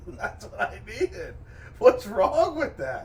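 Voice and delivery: high, loud, drawn-out mock protest. Defending himself to his teasing friends, loud mock indignation. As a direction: protest slowly at the top of your voice.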